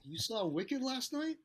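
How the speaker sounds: high, slow disbelieving rise on night; retelling his own astonishment, pitch climbing; incredulous question. Retold or imitated. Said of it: "I was like".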